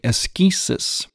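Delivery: "askesis" said with a hard k, as in Greek; Greek-style "askesis", stressed on SKEE; Greek pronunciation. Shown as a demonstration. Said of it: "more of a Greek pronunciation".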